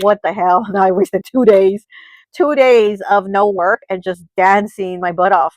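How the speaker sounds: loud, drawn-out mock exasperation; exasperated. Girl realizing she wasted two days dancing, exasperated. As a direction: punch out the dismay, stretching the words.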